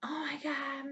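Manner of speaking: high, slow mock wail over a scratch; hammed-up fake panic; mocking whiny voice. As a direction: mimic him whining that he's hurt. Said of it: "and he freaks".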